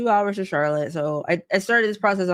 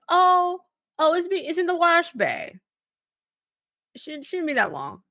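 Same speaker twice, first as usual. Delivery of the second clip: a lightly raised, fluttery staff voice; mock dealership employee, lightly pitched up; high employee voice; 11 semitones higher than usual. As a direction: brush it off like a flustered clerk.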